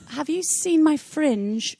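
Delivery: high, drawn-out mock London accent. Sharing words picked up in London, playful London accent. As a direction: lilt slowly in a put-on London accent. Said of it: "when I was working in London".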